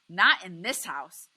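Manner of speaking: wife pleading with her husband, yelling through tears; tearful yell rising to wailing. A narrator's reading. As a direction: cry out in despair, voice cracking. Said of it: "Graham yells".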